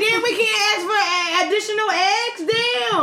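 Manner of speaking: mock indignation. Retells protest about being refused eggs.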